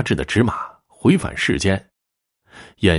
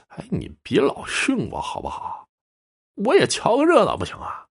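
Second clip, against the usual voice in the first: high, whiny little-brother complaint; grumbling protest; 12 semitones higher, 3 dB quieter than usual. A narrator's reading. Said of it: "赵老二嘟嘟囔囔后退几步".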